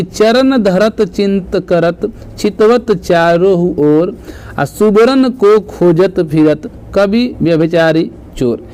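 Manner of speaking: slow, measured verse reading; verse recitation. Acted. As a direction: recite the example line slowly, word by word. Reads out verse example. (धीमा काव्य-पाठ)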